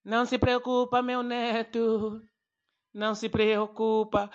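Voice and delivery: slow, unhurried grandfather; calm grandpa. Retold or imitated. Grandfather calmly soothing his panicked grandson, slow and unbothered. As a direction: soothe the boy without a care. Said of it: "Meu avô bem calmo".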